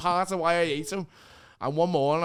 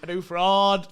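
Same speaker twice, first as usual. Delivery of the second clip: louder mock of a ranting customer; mock angry woman; 3 semitones higher, 8 dB louder, slower than usual. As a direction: quote the viral woman, hammed up. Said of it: "Remember the clip of that wank woman".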